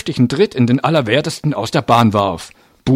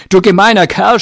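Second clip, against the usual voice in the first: put-on high, loud boy's yell; shouted; 10 semitones higher, 7 dB louder than usual. A narrator's reading. Boy attacking the man with his fist, shouting. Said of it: "schrie er".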